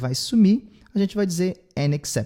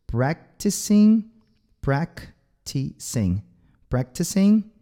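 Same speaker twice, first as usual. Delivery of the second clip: slow drill; slower than usual. Shown as a demonstration. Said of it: "causa um pouco de problema".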